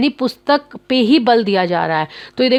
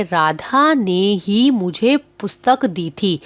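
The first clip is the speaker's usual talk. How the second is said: ही given weight after Radha, said slowly; stress on ही; slower than usual. Shown as a demonstration. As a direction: lean on the word ही, slow and clear. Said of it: "ही क्या है? निपात है।".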